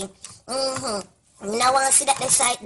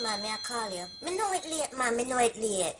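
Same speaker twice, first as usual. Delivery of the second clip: Jamaican patois; 8 dB quieter than usual. Acted. Comedic Jamaican character phone call.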